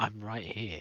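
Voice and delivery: hushed, quiet half-whisper. Speaking in character from the forest to the others: half-whisper. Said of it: "You hear a whisper from the forest say".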